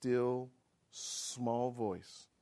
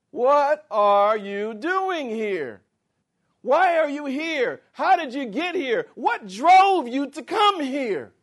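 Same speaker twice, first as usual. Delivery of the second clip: much higher and louder, slow and ringing; booming preaching; 11 semitones higher, 13 dB louder, slower than usual. Acted. Preacher booming God's question to the congregation, high and loud. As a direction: thunder God's question at them. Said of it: "preaching God's question loudly".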